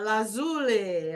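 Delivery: lazuli offered as another way to say it; alternative pronunciation. Shown as a demonstration. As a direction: toss out lazuli as a second option. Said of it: "whatever you wanna say".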